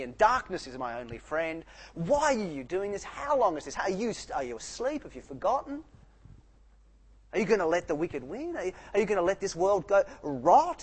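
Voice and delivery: imitating a furious, grieving psalmist; angry lament. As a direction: hurl accusing questions at God.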